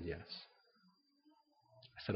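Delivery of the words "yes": very soft, low reply; tender retelling. Retold or imitated. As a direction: answer gently, barely above a murmur. Tender reply in retold story.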